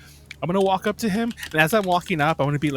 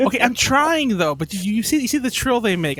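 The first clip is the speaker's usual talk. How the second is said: crane trill attempt; 5 semitones higher than usual. Real, not acted. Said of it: "you are not the trillist".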